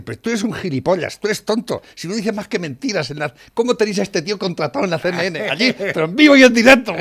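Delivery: hammed-up reporter shouting insults; mock heated accusation. Reporter yelling at Trump at a press conference, mock shouting.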